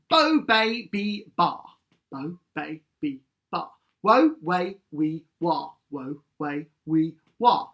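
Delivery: crisp syllable warm-up; articulation drill. Shown as a demonstration. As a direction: clip each syllable like a vocal coach. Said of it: "So repeat after me".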